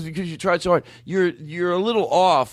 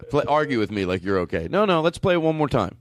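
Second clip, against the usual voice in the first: ordinary talk, nothing marked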